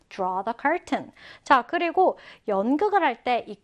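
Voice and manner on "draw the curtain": slow model phrase. Shown as a demonstration. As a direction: hand it to the class slowly. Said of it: "draw the curtain이라고 합니다". (천천히 시범으로 Draw the curtain)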